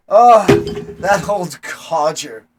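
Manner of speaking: booming tavern loudmouth; Ramasundaran's huge voice. Acted. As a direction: project it loudly, not caring who overhears. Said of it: "he's talking in a huge voice".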